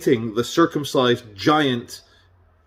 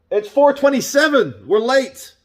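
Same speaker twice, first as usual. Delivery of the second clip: startled realisation; 12 semitones higher, 3 dB louder than usual. Real, not acted. Notices the time suddenly.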